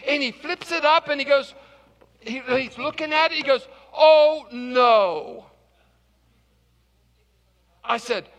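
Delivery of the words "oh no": alarmed gasp. Retold or imitated. Clerk alarmed at suitcase.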